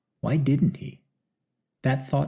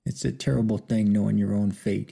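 short of breath. Acted. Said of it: "between his shallow breaths".

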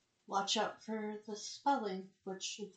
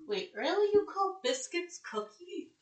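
high, loud incredulous questions; surprised disbelief; 9 semitones higher, 7 dB louder than usual. Real, not acted. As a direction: blurt it out in disbelief. Learning biscuits mean cookies.

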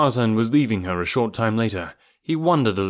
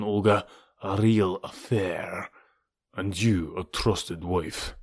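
menacing Rokoff. Acted. Villain Rokoff threatens Olga.

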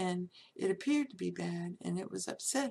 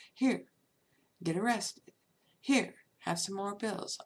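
gleeful taunt, a bit louder; sing-song taunt handing out punishment; mocking trickster; 3 dB louder than usual. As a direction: dangle more trouble like a teasing trickster.

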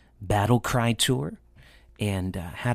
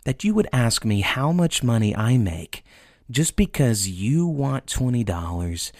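upset dad; 3 semitones higher than usual. Retold or imitated. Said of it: "is very upset".

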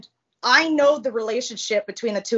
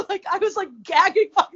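laughing; 7 semitones higher, 5 dB louder, faster than usual. Real, not acted. Laughs at own story.

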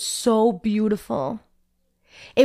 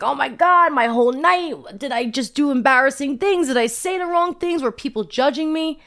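rising anxious questions, pitched up; retold freak-out; 4 semitones higher than usual. Hungover and worrying about the night, mild mock panic. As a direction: spiral into worry, lightly acted. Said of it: "I was just, like, freaking out".

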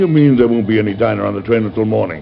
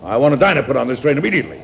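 higher, fast, irritated order; exasperated demand; 4 semitones higher than usual. Acted. President demands a diner from the conductor, fast and irritated. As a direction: bark it out, fed up.

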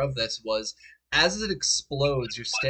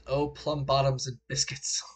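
mock British accent. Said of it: "I can't British".

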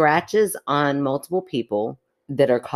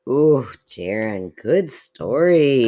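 slow sarcastic praise; 2 semitones lower, 4 dB louder, much slower than usual. Real, not acted. Teasing praise.

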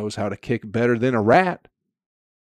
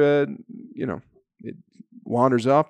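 usual speaking voice

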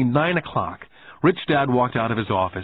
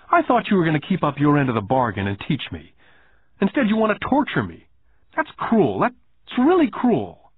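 put-on higher boy's voice, hurt and accusing; a child complaining of cruelty; upset young boy; 6 semitones higher than usual. Boy continues his grievance.

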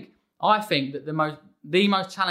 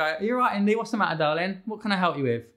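gentle parent; 3 semitones higher, faster than usual. Retold or imitated. Dad calmly asking his upset daughter, gentle concern. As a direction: soothe a small child after a breath. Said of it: "just calm your breath for a second".

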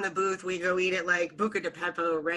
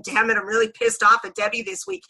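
mock angry rant; faster than usual. Fan venting at a TV character.

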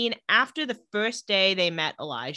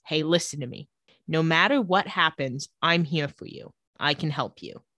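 reassuring; 4 semitones lower than usual. Retold or imitated. Stefan comforts crying Elena, retold.

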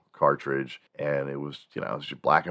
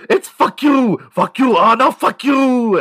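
very high, loud, slow gleeful shriek; excited yelling; 11 dB louder, slower than usual. Retold or imitated. Kid shouting at the Game Boy screen, gleeful high yell. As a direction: shriek it like a thrilled eight-year-old.

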